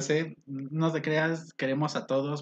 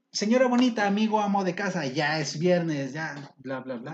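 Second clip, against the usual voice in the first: radio host opener. Retold or imitated. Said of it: "yo quería abrir en alguna ocasión con".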